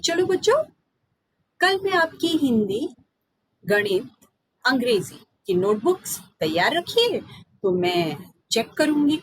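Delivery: lightly voiced teacher giving instructions; a hint of a classroom teacher; teacher's voice. Teacher tells the class to bring notebooks, lightly voiced. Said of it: "अध्यापिका जी ने कहा".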